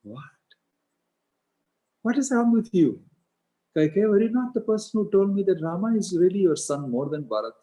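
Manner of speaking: high, loud incredulous questioning; stunned disbelief. Retold or imitated. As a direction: protest as if you cannot believe your ears. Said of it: "he couldn't believe it".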